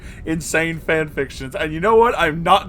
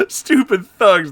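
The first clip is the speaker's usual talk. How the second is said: slow laughing; 5 semitones higher, 5 dB louder, slower than usual. Real, not acted. Laughing through lyric.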